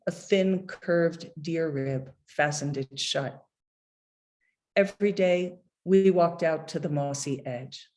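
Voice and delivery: measured, unhurried poetry reading; poem reading. Acted. Poet reading his poem about his dying father to an audience, measured and unhurried. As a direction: read each line like a poet at a podium.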